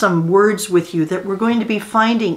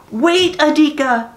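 higher, louder call after him; 7 semitones higher, 3 dB louder than usual. A narrator's reading. Mother calling her son back on the road. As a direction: call after the boy running ahead. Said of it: "Mama called".

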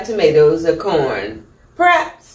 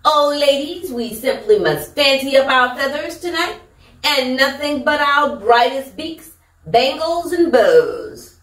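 higher, fussy society hen; glamorous hen; 4 semitones higher than usual. Acted. Hen urging friends to fancy up, higher and grand. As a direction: preen like a grand lady hen.

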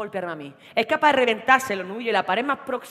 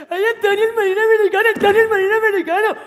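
much higher, loud taunting; mocking friends; 11 semitones higher, 13 dB louder than usual. Colleagues teasing Antonio in front of everyone, taunting. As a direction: tease him in a sing-song.

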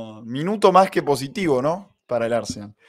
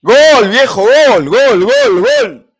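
shrieking gol gol gol, very high; goal scream; 8 semitones higher, 13 dB louder, much slower than usual. Real, not acted. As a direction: lose it over the goal. Goal celebration while watching.

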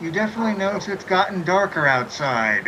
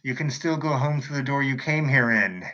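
shopkeeper voice; 5 semitones lower, 4 dB quieter than usual. Acted. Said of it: "you two and says".

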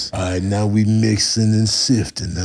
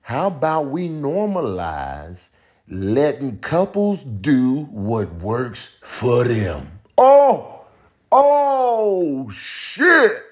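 high-voiced comic character; 11 semitones higher than usual. Making the case for couples, high character voice. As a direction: argue it way up in pitch.

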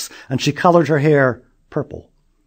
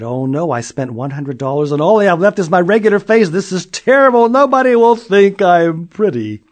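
high, loud, drawn wail; wailing girl; 7 semitones higher, 8 dB louder than usual. Acted. Julie wailing at the mirror, high and loud. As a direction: wail in despair.

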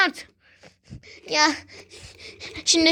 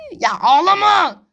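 louder, slow scolding; exasperated; 6 dB louder, slower than usual. Acted. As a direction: tell the crybaby to stop crying. Leader tells crier stop.

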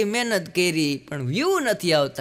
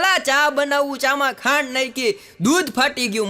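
exasperated husband on phone; 6 semitones higher than usual. Retold or imitated. Complaining to wife on phone.

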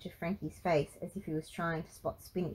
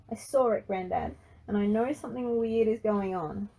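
raised, higher accusing voice; loud and high; 4 semitones higher, 5 dB louder than usual. A narrator's reading. Frankie confronts granddad about the computer, loud and high. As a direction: confront him loudly, pitch pushed up. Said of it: "his voice loud and weirdly high".

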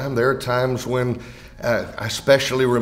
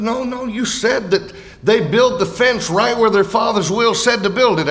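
higher-pitched protesting listener; mock objection; 6 semitones higher than usual. Listener disputing the answer about the fence, mock objection. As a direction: protest as if catching out the speaker.

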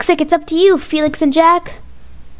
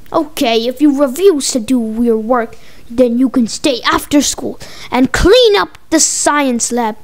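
a lower, measured teacher; lightly voiced teacher; 3 semitones lower than usual. Teacher threatens boys who refuse their work, lightly voiced stern. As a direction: lightly play the teacher, pitched down.

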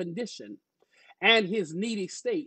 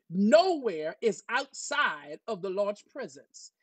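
preaching; 3 semitones higher than usual. Real, not acted. Pastor assuring church God is everywhere, emphatic preaching. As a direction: preach with stretched, emphatic key words.

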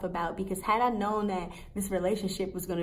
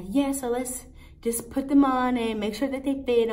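assistant voice; 5 semitones higher, 4 dB louder than usual. Retold or imitated.

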